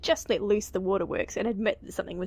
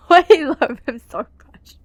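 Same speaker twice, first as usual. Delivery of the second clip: loud gushing; 4 semitones higher, 13 dB louder than usual. Acted.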